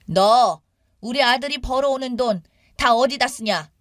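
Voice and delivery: lightly acted interrogation by an elder; accusing mother-in-law. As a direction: demand an account from her.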